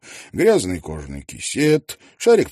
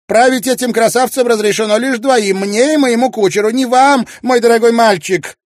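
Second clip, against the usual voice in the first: put-on much higher, louder lively elderly lady; Mrs Wannop voiced; 12 dB louder than usual. Mrs Wannop refusing Tietjens the reins, lively and high. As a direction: playfully put the young man in his place.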